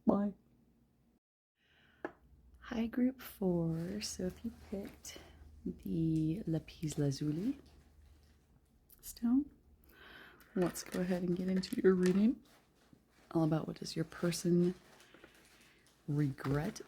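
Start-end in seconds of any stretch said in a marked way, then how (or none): 2.6-11.8 hushed, half-whispered greeting; quiet voice. Real, not acted. Reader greeting group four with an upset cat nearby, quiet voice. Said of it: "apologize for my voice being so quiet".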